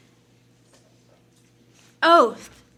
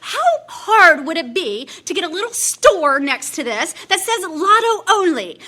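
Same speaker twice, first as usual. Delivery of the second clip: mock yell; 3 semitones higher, 4 dB louder than usual. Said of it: "I would yell at them".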